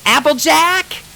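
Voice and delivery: high, loud call through a door. A narrator's reading. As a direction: shout for her friend over the storm. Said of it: "she called".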